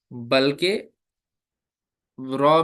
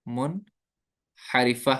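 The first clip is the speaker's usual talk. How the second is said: मुनहरिफा drawn out very slowly, syllable by syllable; slow spelling-out; 2 semitones lower, much slower than usual. Shown as a demonstration. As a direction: stretch मुनहरिफा for the students to repeat. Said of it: "इनको बोलते हैं हरूफ". (मुनहरिफा, बहुत धीरे, अक्षर-अक्षर)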